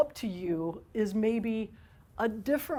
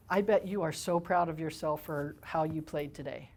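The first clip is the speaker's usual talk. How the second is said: lower, softer encouragement; encouraging; 4 semitones lower, 4 dB quieter than usual. Shown as a demonstration. Parent encouraging a child after a game, soft and warm. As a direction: quietly affirm their effort. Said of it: "Instead of".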